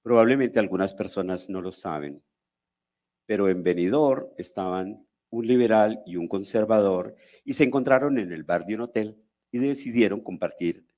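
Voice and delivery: measured poem reading with long pauses between lines; poetry recital. Acted. Poet reciting exile poems to an audience, measured declamation.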